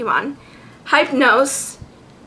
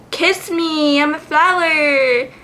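Bellsprout flower voice; 3 semitones higher, slower than usual. Retold or imitated. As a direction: play a lovesick cartoon flower. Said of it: "Bellsprout is like".

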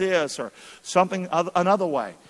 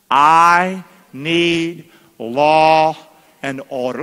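loud; 2 semitones lower, 8 dB louder, much slower than usual. Shown as a demonstration. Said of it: "Would you say it loud?".

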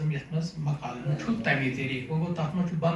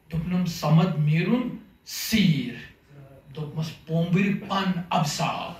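measured, deliberate verse delivery; poem recitation; 4 dB louder, slower than usual. Acted. Poet reciting question-and-answer verse to an audience, measured recitation. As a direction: recite line by line, pausing after each cue word.

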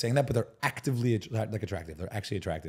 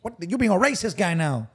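higher-pitched put-on Asian accent; exaggerated imitation of an Asian accent; mock Asian accent; 6 semitones higher than usual. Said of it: "do an accent challenge".

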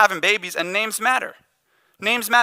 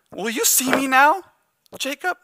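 pleading cry; 7 semitones higher than usual. Retold or imitated. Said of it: "Almost like she's crying out and saying".

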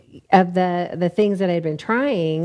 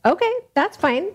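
light agreeable voice; 12 semitones higher than usual. Retold or imitated. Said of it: "And you said".

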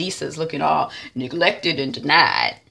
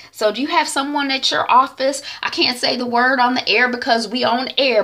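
higher, lively on-air host chatter; radio host; 5 semitones higher, 4 dB louder than usual. Retold or imitated. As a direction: talk up to your listeners like a radio host. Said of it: "She on the air ... talking, you know, to her audience".

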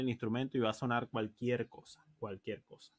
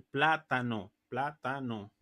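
"plátano" in three measured syllables; deliberate syllable by syllable; three-syllable rhythm word; slower than usual. Shown as a demonstration. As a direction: space out "plá-ta-no" evenly. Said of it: "una palabra de tres sílabas".

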